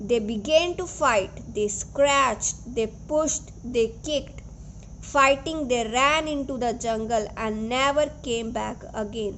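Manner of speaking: slow, careful storybook reading; story narration. A narrator's reading. Teacher reading the chapter aloud to her students, storybook narration. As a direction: read it out steadily for the kids. Reads English story text to class.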